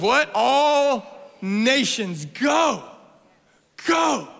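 high, drawn-out preaching shout; rousing command. Real, not acted. Preacher giving the Great Commission to the church, shouted. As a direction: send them out with a ringing cry.

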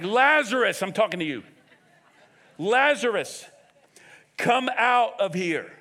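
loud, commanding summons; forceful acted shout, slowing on the final order; crying out loudly. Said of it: "he cried out in a loud voice".

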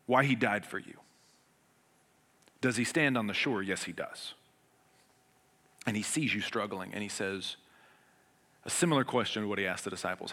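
normal talking voice

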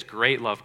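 GREAT hit hard, ahead of love; emphatic "great"; stress on GREAT. Shown as a demonstration. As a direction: punch the word "great".

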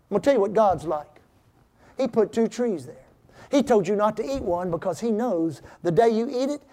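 a hint of a scheming tempter; enemy's voice. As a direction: coax like a deceiver spinning a scam. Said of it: "that's exactly how the enemy talks".

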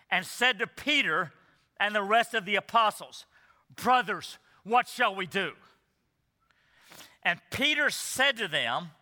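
measured public Bible reading with pauses between phrases; scripture reading. Real, not acted. Preacher reads the passage to standing congregation, measured scripture reading. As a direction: read it out solemnly, phrase by phrase.

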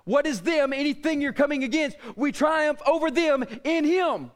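preacher building to a shout; fervent sermon build; preaching. Acted. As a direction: drive it home like a pulpit climax. Preaching with rising force.

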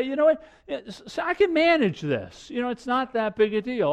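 high-pitched, acted self-assurance; overconfident dismissal. Preacher voices a sinner excusing himself, overconfident dismissal.

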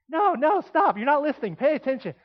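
frustrated teacher. Retold or imitated. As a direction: snap at a class that won't listen. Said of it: "I'm gonna get frustrated and say".

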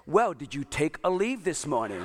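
mildly mocking imitation of a wife; sarcastic. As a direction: needle him with mock-innocent sarcasm. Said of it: "she says it so sarcastically".

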